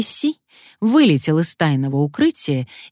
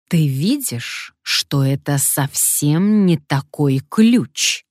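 slow, level, deceptively calm; slower than usual. Acted. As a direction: menace hidden under calm. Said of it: "обманчиво спокойным тоном".

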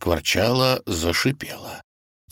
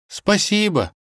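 a touch of sorrow, higher pitched; mild mournful thank-you; sad thanks; 13 semitones higher, slower than usual. Acted. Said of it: "грустно отозвался тот".

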